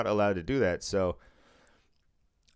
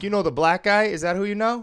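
higher, louder disbelieving retort; incredulous comeback; 9 semitones higher, 6 dB louder than usual. Retold or imitated. Worker mocking the patron's claim in disbelief. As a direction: throw it back in disbelief.

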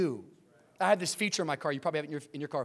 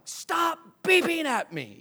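retold yell; 9 semitones higher, slower than usual. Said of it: "I just started screaming at him".

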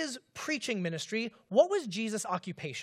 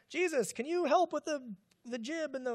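mock sailor request; 5 semitones higher than usual. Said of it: "I don't even know what I'm saying".

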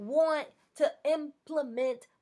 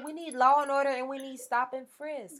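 imitating Trump, laughing through it; hammed-up Trump, cracking up mid-line; a laughing mock Trump rant; mock Trump quote; 2 semitones higher than usual. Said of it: "This man said".

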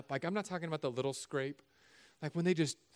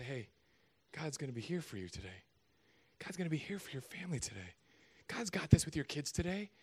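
gentle reassurance; 6 dB quieter than usual. Acted. Church member comforting someone on a bad day, soft. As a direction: reassure them gently, hand on shoulder.

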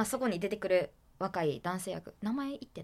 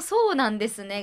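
quoting a line; 3 semitones higher, 10 dB louder than usual. Retold or imitated. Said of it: "この「そうなんですね」がもう絶妙".

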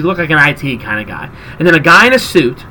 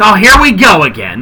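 exasperated; 3 semitones higher, 4 dB louder than usual. Retold or imitated. Big guy's exasperated comment acted.

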